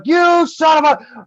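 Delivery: slow, rising-pitched retold swearing; retold cussing. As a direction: start cussing him out, stretching each word. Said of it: "I start cussing him".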